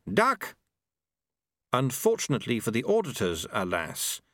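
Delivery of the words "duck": high-pitched urgent shout; shouted warning. A narrator's reading. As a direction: yell it out, pitch leaping up. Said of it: "and then shouted".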